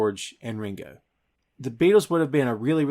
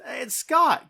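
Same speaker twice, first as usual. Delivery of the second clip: quoting Hulk; 11 semitones higher than usual. Retold or imitated. Hulk quoted in recap.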